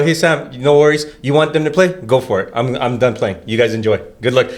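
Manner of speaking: retold as easygoing, low-key resignation; calm. Player telling coach he's done playing, mock calm. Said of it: "It wasn't that calm of a voice".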